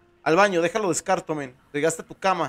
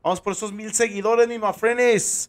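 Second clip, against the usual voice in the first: hype rally; 4 semitones higher, 4 dB louder than usual. Real, not acted. Rallying viewers for followers.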